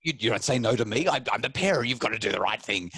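lightly acted parental protest; mock indignation at being told no; indignant parent. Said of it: "as a parent, you're like".

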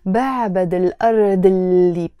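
الأرض linked straight into اللي; with liaison. Shown as a demonstration. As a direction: run الأرض into اللي without a break. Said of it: "With the liaison".

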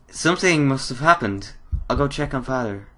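put-on worried girl character. Daughter hears a scream from Father, lightly worried girl. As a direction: lift the voice into a concerned daughter. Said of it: "I just changed character completely".

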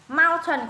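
"mountain" stressed on MOUN; first-syllable stress. Shown as a demonstration. Teacher adding another example, front-stressed "mountain". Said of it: "cũng là âm đầu luôn".

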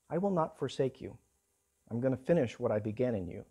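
a hint of God's voice, soft and searching; lightly voiced God, quietly asking. God gently questions the despairing Elijah, soft. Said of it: "there came a voice to him and said".

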